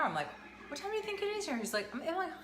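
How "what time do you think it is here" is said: exasperated. Retold or imitated. Her own retold quote, exasperated.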